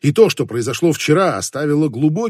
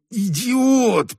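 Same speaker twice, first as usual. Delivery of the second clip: high, drawn-out exasperated exclamation; angry hiss; 10 semitones higher than usual. A narrator's reading. Hero berates himself over the bumped head, hissing angrily. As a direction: hiss it at yourself, pitched high. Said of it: "прошипел он".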